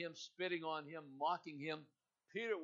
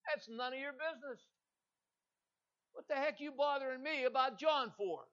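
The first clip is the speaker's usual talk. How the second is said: brusque rebuke; 8 semitones higher, 3 dB louder than usual. Acted. Jesus brushing off Peter.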